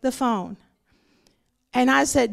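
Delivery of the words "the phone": mom's challenge. Retold or imitated. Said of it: "She would say".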